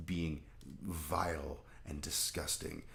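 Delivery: slow Southern preacher disgust; mock Southern Baptist. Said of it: "evil Southern Baptists".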